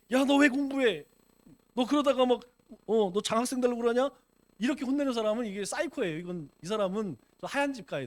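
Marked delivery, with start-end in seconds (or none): 0.1-4.1 mildly hammed-up parent's telling-off; mock angry scolding. Preacher imitating a parent angry at a studying child, mock scolding. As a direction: scold as if fed up, only half in earnest. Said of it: "공부하는데 가서 막 화를 내".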